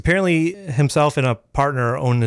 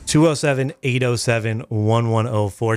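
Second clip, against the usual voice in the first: spelled out slowly digit by digit; slow, clear read of "Two oh seven"; slow number read. Shown as a demonstration. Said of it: "repeats the phone number slower".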